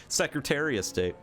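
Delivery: "of" reduced to a bare "uh", "Secretary-a-State"; slurred "of". Shown as a demonstration. Streamer showing Michigan speech, slurred "of". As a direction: run "Secretary of State" together, swallowing "of". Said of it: "It's not Secretary of State".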